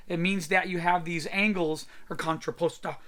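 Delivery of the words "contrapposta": contrapposta said the Italian way, lightly; Italian accent. Shown as a demonstration. Art teacher offering the Italian way to say it, light Italian accent. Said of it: "if you want to say it with an Italian accent".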